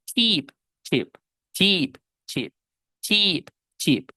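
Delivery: first CHEAP stretched, second CHEAP quick and lax; long i versus short i. Shown as a demonstration. Teacher showing students the difference, long versus short i. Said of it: "¿Ven la diferencia?".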